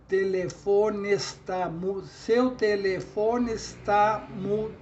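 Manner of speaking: slow measured beats, "telefone está" linked, stopping on "mu"; scanning syllables. Shown as a demonstration. Teacher counting up to the last stressed syllable, scanning syllables. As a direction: count it out and cut off at "mu". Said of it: "E termina no mu".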